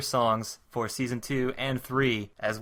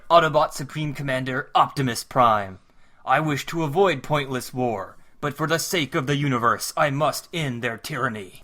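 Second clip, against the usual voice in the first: Optimus Prime; 3 dB louder than usual. Acted. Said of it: "maybe I should voice Optimus".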